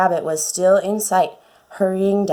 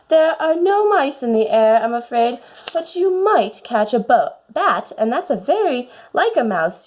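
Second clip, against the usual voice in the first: put-on a little higher, a chatty young girl talking to herself; lightly childlike, musing aloud about her cat; lightly voiced Alice; 3 semitones higher than usual.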